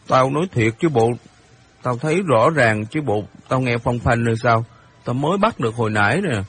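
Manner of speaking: put-on mildly heated boy making an accusation; lightly voiced indignant boy Hiệp. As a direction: protest with restrained outrage.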